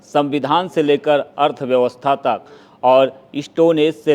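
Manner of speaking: measured, formal outro read; formal programme-closing announcement; presenter sign-off. Acted. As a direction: close the show like a presenter, phrase by phrase. Presenter reads the show's sign-off.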